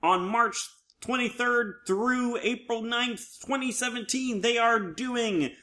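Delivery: high, slow, dramatic ominous announcer; a lightly ominous trailer voice. Acted. Host announcing the next show, slow mock-ominous trailer voice. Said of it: "you sound so ominous when you".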